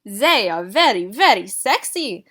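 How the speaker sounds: put-on slow, loud, swooning French-accented praise; gushing French accent. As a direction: savour every word like a proud couturier. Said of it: "claimed Madame Rossini".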